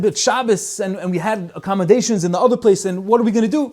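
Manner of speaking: worried voice rising high; nervous friend. Retold or imitated. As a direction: fret about missing Shabbos. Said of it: "he started getting all nervous".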